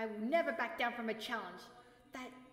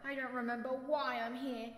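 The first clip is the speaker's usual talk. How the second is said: fed up; 4 dB louder than usual. Acted. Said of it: "in boredom".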